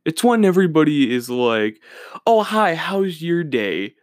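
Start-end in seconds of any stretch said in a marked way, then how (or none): 2.3-3.9 slow, sugary mock greeting with a sarcastic edge; passive-aggressive Minnesota nice; snarky fake niceness. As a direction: sound sweet but mean none of it. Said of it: "But they're being kinda snarky about it".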